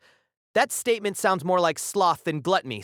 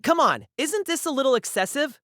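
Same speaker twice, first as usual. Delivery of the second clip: raised, nervous, trembling voice; quivering voice; 7 semitones higher than usual. Acted. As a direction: voice shaking with fear. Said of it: "let those words out in a quivering voice".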